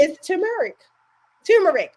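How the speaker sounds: "turmeric" with a punched first syllable; corrected pronunciation. Shown as a demonstration. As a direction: insist on "turmeric", careful with the "tur". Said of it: "I didn't say tu".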